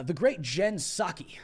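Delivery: slow, cracking up mid-phrase; barely holding back a laugh; laughing at own joke. Real, not acted. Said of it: "I guess I make myself laugh".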